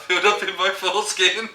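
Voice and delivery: words breaking into laughter; can't get it out for laughing; real laughter spilling over. Real, not acted. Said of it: "laughing at own story".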